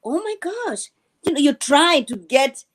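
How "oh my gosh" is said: imitating an awestruck American, softly gushing; mock admiration. Host mimics Americans hearing European accents, mock admiration. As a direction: gush in mock wonder at a classy accent. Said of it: "they say it's very sophisticated".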